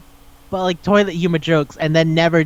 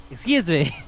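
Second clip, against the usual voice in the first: softer, falling "Excuse me"; deadpan disbelief; 6 dB quieter than usual. Acted. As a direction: let the outrage drop to a quiet statement. Same reaction repeated, dropping down.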